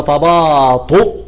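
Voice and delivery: تباطؤ said slowly with a clear final hamza; slow model word. Shown as a demonstration. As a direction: draw out تباطؤ and close on the hamza. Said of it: "فالضم ده بيقول لك اكتبها على واو".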